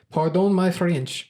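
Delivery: pardon my French in a hammed-up French accent; slow, drawn-out mock French accent; playful fake French accent. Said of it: "I said it in a French accent".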